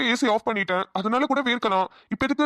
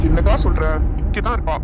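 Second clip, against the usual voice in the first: loud retort; 4 semitones lower, 7 dB louder than usual. Acted. Brother snaps back.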